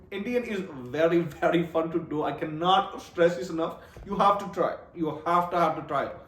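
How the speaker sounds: emphatic urging in an imitated Indian accent; imitation Indian accent; mock Indian accent. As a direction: slip into a put-on Indian accent. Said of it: "I did a little bit Indian for you".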